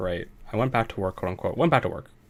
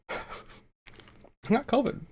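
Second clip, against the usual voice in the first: high slow laughing repeat; 12 semitones higher, much slower than usual. Real, not acted. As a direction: laugh it out slowly.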